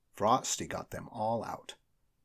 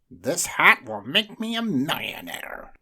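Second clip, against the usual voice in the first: loud, higher greedy voice; greedy magician; 7 semitones higher, 8 dB louder than usual. A narrator's reading. Greedy magician gloating over the hat. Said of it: "said the greedy magician".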